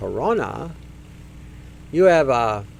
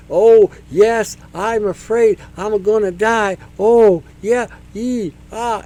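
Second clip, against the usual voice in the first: mock fright; 4 semitones higher, 5 dB louder, slower than usual. Imitating a triggered frightened person.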